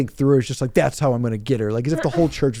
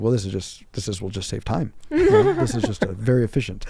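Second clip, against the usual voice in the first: laughing; 2 semitones lower than usual. Retold or imitated. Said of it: "I remember just being like".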